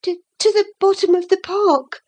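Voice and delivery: high, fast, flustered stammer. Acted. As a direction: trip over the first word in a fright. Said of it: "she stammered".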